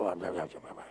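low, very soft grumbling to oneself; muttered brooding. Acted. Someone rehearsing a wrong done to them, muttering low. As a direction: mutter it under your breath, far below normal voice. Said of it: "You kinda rehearse it".

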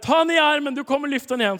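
high, loud, confident order; bold command. Retold or imitated. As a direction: call it out with full faith. Commanding the healed man.

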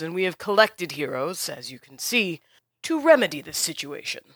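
lightly voiced commanding half-orc, grave and formal; a hint of a stern leader laying out the stakes. Half-orc leader explains the demon to dragonborn heroes, grave.

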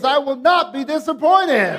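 mock yell at the kids, half laughing; yelling at your kids. Shown as a demonstration. Preacher has the church yell it like at kids, mock yell. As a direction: scold it like a fed-up parent. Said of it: "say it like you're yelling at your kids".

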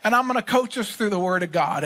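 mock coach reply. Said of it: "I was like".

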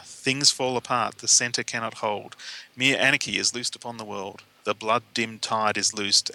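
measured, even verse reading; poem read aloud. Real, not acted. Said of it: "I thought I'd read".

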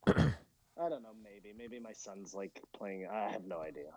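dropping, glitchy call audio; laggy video call. Real, not acted. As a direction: voice cutting out over bad internet. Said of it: "My internet sucks".

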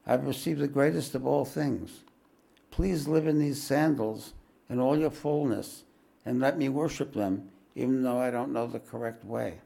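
understated tender devotion; softly and tenderly. Acted. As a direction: speak gently to the guru. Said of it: "I spoke softly and tenderly".

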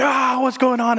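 retold yelling. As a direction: replay the shoulder pain as a yell. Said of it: "I was yelling and screaming".

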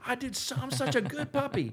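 very high squeaky puppy voice; puppy's voice. Retold or imitated. Trainer voicing the proud puppy after the retrieve, squeaky. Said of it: "They're probably gonna drop it like".

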